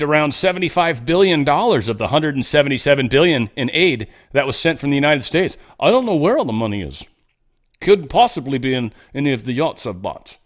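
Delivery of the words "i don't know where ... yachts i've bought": a deliberately bad Ukrainian accent, barely shifted; lightly mock a Ukrainian accent, badly done; bad Zelensky accent. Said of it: "That's such a bad accent".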